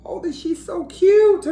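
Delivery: high breathless whisper; gushing whisper. Acted. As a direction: whisper it like you're melting over a cute monkey. Cat gushing over monkey.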